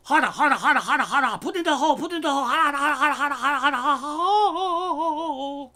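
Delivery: high, loud, breathless mock moaning with laughs; hammed-up high moaning, laughing through it; mock porn moaning. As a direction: ham up over-the-top moaning, cracking up. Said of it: "sounds like Asian porn".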